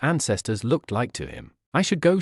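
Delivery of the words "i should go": awkward. A narrator's reading. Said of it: "she said awkwardly".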